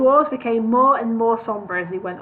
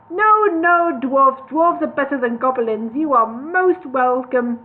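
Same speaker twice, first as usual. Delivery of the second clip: eager; 3 semitones higher, 4 dB louder, slower than usual. Acted. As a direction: quickly correct him, eager. Eager reply to big man.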